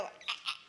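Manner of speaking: short, voiceless demo screams; half-hearted little pretend screams; mock scream. Shown as a demonstration. Presenter showing the audience where to scream, mock scream. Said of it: "you get to scream".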